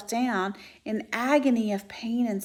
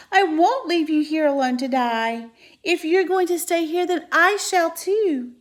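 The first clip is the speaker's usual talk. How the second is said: high and loud, slowing at the end; desperate shout; 8 semitones higher, 8 dB louder than usual. Acted. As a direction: shout your loyalty, refusing to go. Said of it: "shouted Wilbur".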